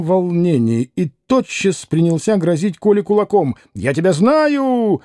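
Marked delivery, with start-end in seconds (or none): 3.7-5.0 slow, higher, irritated "Я тебя знаю"; раздражённое восклицание; irritated exclaiming. Acted. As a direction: exclaim it, drawing the words out in vexation. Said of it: "восклицал он раздражённо".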